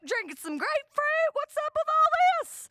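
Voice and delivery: drawling redneck who builds to a loud high rant; mock a scornful Alabama drinker getting worked up; mock Southern bar guy. Guy at the bar mocking her shandy, rising into a shout.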